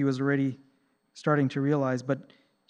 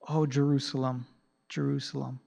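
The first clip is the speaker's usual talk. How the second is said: softer, grieving lament over the city; compassionate; 4 dB quieter than usual. Retold or imitated. Jesus lamenting over Jerusalem, soft and compassionate. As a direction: mourn the name with tender sorrow. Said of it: "He said it with compassion".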